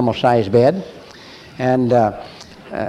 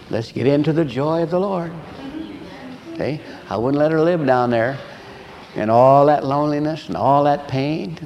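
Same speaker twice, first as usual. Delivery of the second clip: ordinary talk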